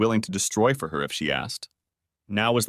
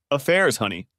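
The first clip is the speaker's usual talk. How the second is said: smiling; 3 semitones higher than usual. Acted. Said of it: "she said, smiling".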